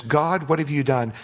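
mildly accusing question to God; imitating an accusing believer; accusatory tone. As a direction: accuse God, just a touch. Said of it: "an accusatory tone that says".

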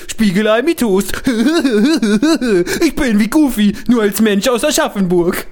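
a light mocking imitation of his friend, laughing through it; lightly voiced boastful cook, half laughing; mocking impression. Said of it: "Soll ich dich mal nachmachen?". (spöttisch nachgemachter Kollege, leicht gespielt)

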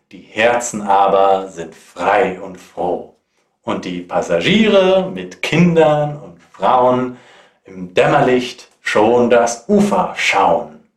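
dramatic ballad reading, rising and falling; poem recitation. Acted.

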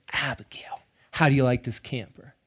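soft, coaxing sales pitch; imitated salesman. Salesman works on the nine-year-old daughter, softly imitated pitch. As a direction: lean in close and ask softly. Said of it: "gets in her little nine-year-old face".

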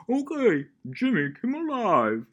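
high, loud, drawn-out announcer call; live show announcer. Retold or imitated. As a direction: belt out the show's opening like an announcer. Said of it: "That was a pretty good impression".

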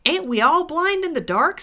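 loud, high-pitched grumbling dwarf; exasperated retort. A narrator's reading. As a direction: fire it back indignantly, pitched high.

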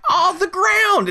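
high, slow mock-hillbilly drawl; slow dumb hick. Mocking the moonshiners with a slow high voice. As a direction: spell it out like a slow yokel. Mocking characters reading the clue.

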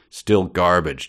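scoffing. Acted. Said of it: "Jabba scoffed in disgust".

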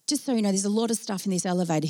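soft, quick nervous aside; nervous hedging. Retold or imitated. Nervous worker to colleague about the loaded elevator, hesitant and soft. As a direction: bring it up quietly and hurriedly.

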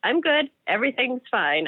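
lightly voiced everything's-fine act; faking cheerful. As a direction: put on a smile and insist all is well. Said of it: "I was very good at smiling".

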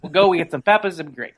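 weak attempt at a Chicago accent; a halfhearted Chicago accent. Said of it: "my poor attempt in, at a Chicago accent".

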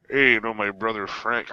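half-hearted mumbly celebrity impression; Stallone. Host reluctantly doing an impression on request, bad Stallone voice. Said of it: "anyone to do besides Stallone".

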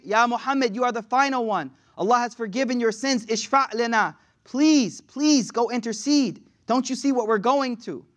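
high, insistent begging; pleading. Acted. The people begging Muhammad to intercede, urgent pleading. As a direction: implore him, stretching out the please.

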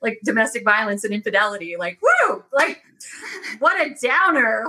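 a hint of ironic cheer; sarcastic inner voice. Mocking her own sad story, mild sarcastic cheer. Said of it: "And I'm like".

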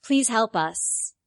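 slow, flat monotone plea. Acted. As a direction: drone it in monotone, slowly. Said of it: "monotone voice".

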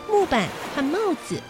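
ordinary delivery

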